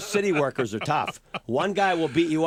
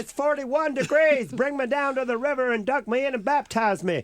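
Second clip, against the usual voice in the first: mock revival preacher; 9 semitones higher than usual. Joking with radio hosts about a warm day, mock preacher fervor. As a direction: ham up a sinner begging to be baptized. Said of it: "It was like a revival".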